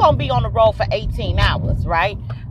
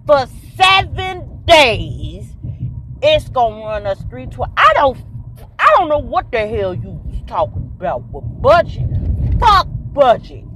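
daddy yelling; 4 semitones higher, 7 dB louder than usual. Retold or imitated. Daughter imitating her dad as he yells about the rental price, loud and high. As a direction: blow up like a dad fed up with the budget. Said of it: "He started yelling".

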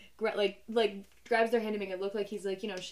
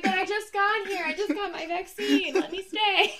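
whiny pleading; 9 semitones higher, 5 dB louder than usual. Retold or imitated. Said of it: "I'd be like".

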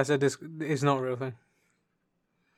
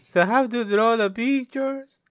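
loud, high put-on Pakistani accent; hammed-up Pakistani accent, pitched right up; mock Pakistani accent; 9 semitones higher, 6 dB louder than usual. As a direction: explain in a silly Pakistani accent. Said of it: "This is clearly a Pakistani accent".

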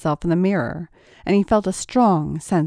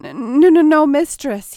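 higher and louder, tripping over the words; hurried; 8 semitones higher, 7 dB louder than usual. A narrator's reading. Tracy hastily correcting himself for the mistress, hurried and loud. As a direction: rush the correction out in a panic. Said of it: "he hurriedly said".

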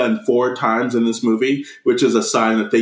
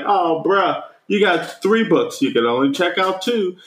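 raised-pitch mock librarian; Christopher Lloyd; 6 semitones higher than usual. Librarian limits the boy to two books, mock sympathetic. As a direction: play a higher-voiced casual librarian. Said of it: "the fucking librarian".

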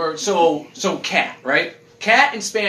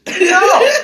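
a high, loud, laughing No; 13 semitones higher, 9 dB louder than usual. Real, not acted. Laughing loud at a friend's silly answer. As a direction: burst out laughing as you reject it.

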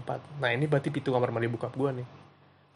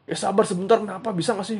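grumbling; 7 semitones higher than usual. Retold or imitated. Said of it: "Dia ngedumel".

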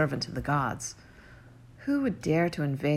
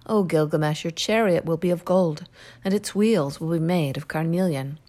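pleading goddess; 5 dB louder than usual. Acted. Ishtar pleads, offering gifts.

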